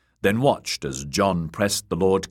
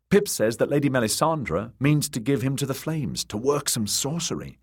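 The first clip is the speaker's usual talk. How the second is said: higher-pitched worried steward's voice; anxious Sam; 7 semitones higher than usual. A narrator's reading. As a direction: pass on a worrying rumour in a higher voice.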